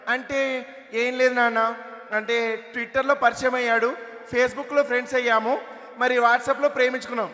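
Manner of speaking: put-on high, drawn-out girl's explanation; put-on teenage girl, stretching the words; teenage daughter. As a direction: explain slowly to father in a girlish voice.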